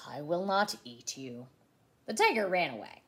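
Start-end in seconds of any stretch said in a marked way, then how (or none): 0.1-1.5 low-pitched huffed line; huffy, low refusal. A narrator's reading. Theodore refusing to eat the tiger, low and huffy. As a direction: huff it out low and firm. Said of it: "he huffed".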